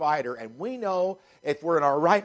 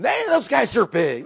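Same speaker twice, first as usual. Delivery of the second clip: awed spies; 5 semitones higher, 3 dB louder than usual. Retold or imitated. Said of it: "They realized".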